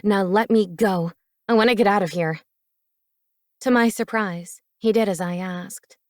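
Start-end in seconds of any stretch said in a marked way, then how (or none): 0.0-2.4 insistent, louder. Acted. Lexi pulls away insisting.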